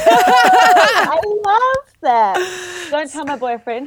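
small bedroom acoustics; in a small room. Real, not acted. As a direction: close room echo. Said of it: "I'm recording in the bedroom".

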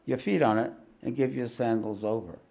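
steady read-aloud narration; lightly voiced devotee pleading; memoir reading. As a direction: read the book to the listeners.

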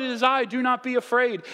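high, loud call to the boat; acted Jesus calling to frightened friends. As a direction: call it out over the wind. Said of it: "Jesus is like".

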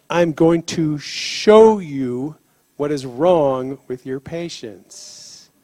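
slow, solemn lightly voiced God. God tells the paramedic he'll show him, slowly and solemnly. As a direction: lay each word down slowly like a promise. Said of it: "he said".

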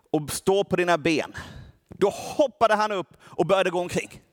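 measured reading of a Bible passage; preacher reading scripture to the church, steady reading voice. Acted. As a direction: read the verses aloud to the congregation. Reads Bible passage aloud.

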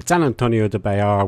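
San Antonio said the French way; Texan city name in a French accent. Pretend. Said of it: "which I always do in a French accent".

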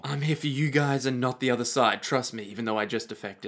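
low, quiet defector's voice; softly voiced turncoat; reformed villain. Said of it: "he's just like".

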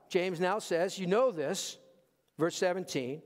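ordinary delivery

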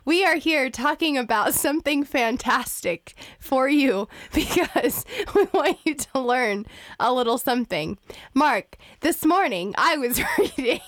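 yelling into the mic. Real, not acted. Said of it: "you are yelling into the microphone".

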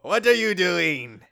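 slow, drawn-out character echo; lightly put-on copycat voice; mimicked question. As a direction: stretch the question out teasingly.

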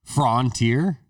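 mock the open vowel in "Frontier": frawn; mimicked pronunciation. Mimicking the friend's pronunciation, "Frontier" as frawn-teer. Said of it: "don't think that's how I'm saying it".

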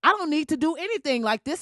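loud, emphatic mock refusal; defiant protest. Grown child talking back to mama about Ben Carson, defiant. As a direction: push back hard at mama, playfully overdone.

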